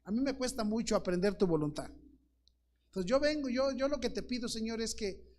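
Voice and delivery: pleading model prayer. Retold or imitated. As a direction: pray it like a humble man begging for guidance. Model prayer voiced to God.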